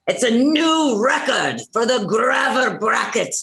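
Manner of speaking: drawn-out, rolling announcement; announcer yell. Acted. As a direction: proclaim a new record to the crowd. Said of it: "The rest of these lines, you're yelling".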